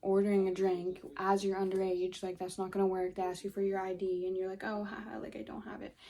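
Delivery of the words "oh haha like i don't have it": sheepish whisper, laughing it off; whispered fake excuse. Mimicking underage excuse.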